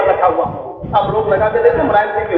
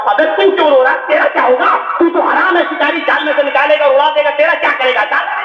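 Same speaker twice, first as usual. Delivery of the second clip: mocking laugh; 5 semitones higher than usual. Pigeon mocking crow.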